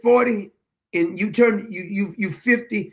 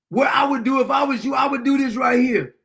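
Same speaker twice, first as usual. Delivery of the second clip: mock Rambo-style online tough guy, pitched higher; tough-talking commenter; 4 semitones higher than usual. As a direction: imitate a blustering Facebook tough guy. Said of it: "this guy be over here talking like".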